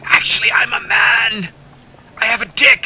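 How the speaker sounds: high, loud mock confession; hammed-up shouted reveal; imitated woman confessing. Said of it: "She's actually telling him".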